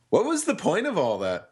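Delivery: laughing. Real, not acted. Laughing at the filler.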